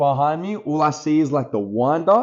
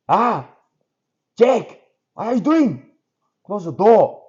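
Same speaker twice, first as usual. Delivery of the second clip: put-on high, raised Asian-accented dad; Asian accent impression; 8 semitones higher, 3 dB louder than usual. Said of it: "I'm making him sound like Asian".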